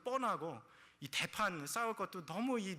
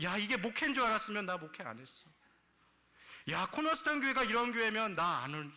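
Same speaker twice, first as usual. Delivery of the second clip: raised, high-pitched complaint; mock outburst; 5 semitones higher, 5 dB louder than usual. Preacher voicing fed-up church members, loud mock complaint. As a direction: protest loudly, as an acted example. Acting out regretful complaints as examples.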